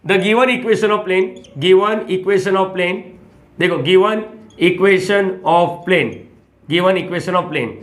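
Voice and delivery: very slow, stretched dictating pace; slow dictation. Shown as a demonstration. Teacher dictating slowly to students as he writes. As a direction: draw each word out as you write it.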